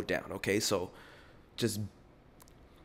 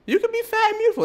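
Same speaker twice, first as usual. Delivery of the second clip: high emphatic; 7 dB louder, much faster than usual. Shown as a demonstration.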